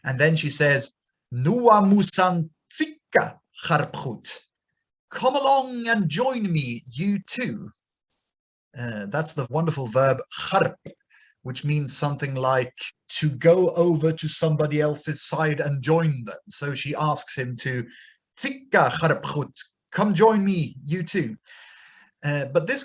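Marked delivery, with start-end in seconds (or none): 1.3-7.7 voiced goddess. Goddess inviting Hobasia to join her, higher voice. 18.4-21.4 higher, coaxing invitation; lightly voiced goddess. Goddess urging Hobasia to come join her.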